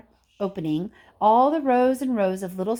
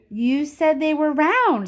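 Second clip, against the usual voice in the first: high, louder, slow protest; indignant; 7 semitones higher, 6 dB louder, slower than usual. A narrator's reading. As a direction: accuse him sharply. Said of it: "said Veruca Salt".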